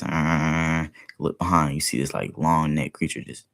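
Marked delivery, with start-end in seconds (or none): 0.0-0.9 sustained buzzing "brrrr"; imitated shaking vibration. Describing being shaken until sight blurs, imitated vibration. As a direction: hold a rumbling buzz. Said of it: "start to see blurriness".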